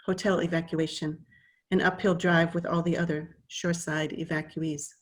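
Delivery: measured poem reading with pauses between phrases; poetry reading. Acted. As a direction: read it as verse, line by line, unhurried. Reads own poem aloud.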